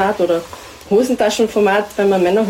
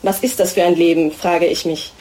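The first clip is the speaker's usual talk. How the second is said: steady, even literary reading voice; prose reading. Acted. Author reading her pregnancy text to the audience, steady. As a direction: read the text calmly, addressing the other you.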